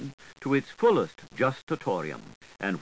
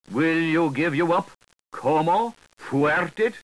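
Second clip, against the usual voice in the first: demanding Mookse; 5 semitones higher, 5 dB louder than usual. A narrator's reading.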